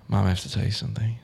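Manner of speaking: sincere fake coming-out; dead serious. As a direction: deliver it straight, as a convincing prank. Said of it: "Like, real serious".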